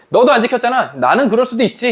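high-pitched, acted defensive retort; self-excusing double standard. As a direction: excuse yourself while blaming the friend. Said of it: "내로남불이죠".

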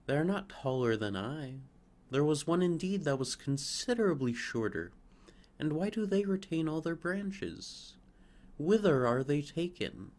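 a hint of jealous wonder; fretful young fir. Fir puzzling over the chosen trees. Fir's envious questions.

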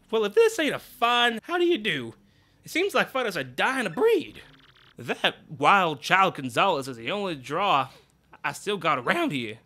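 hammed-up boss musing; Grubba's voice. Boss muttering about his fighters alone.

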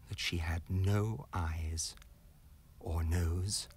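slow, soft dread; hushed horror. A narrator's reading. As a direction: let the horror sink to a whisper. Horror reveal, faceless woman.

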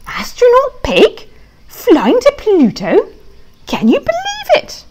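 can't believe the honour, rising excitement; excited disbelief. Acted. Pig asked to pilot the trocket, thrilled high disbelief.

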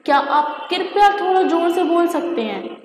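mock formal. Shown as a demonstration. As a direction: parody how nobody really talks on the phone. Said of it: "क्या हम लोग कभी इस तरीके से बोले हैं".

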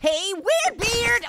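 slow mocking taunt. Taunting bearded zombie.

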